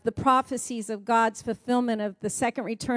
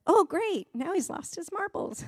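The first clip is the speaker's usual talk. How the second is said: mock dismay; 6 semitones higher, 3 dB quieter than usual. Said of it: "And I went".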